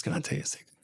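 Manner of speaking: retold confidence. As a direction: drop the volume as if sharing a secret. Retold confidence, second take.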